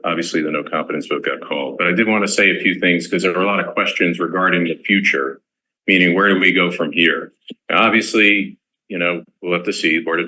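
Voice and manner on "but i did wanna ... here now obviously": commencement voice. Real, not acted. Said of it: "All right, commencement voice".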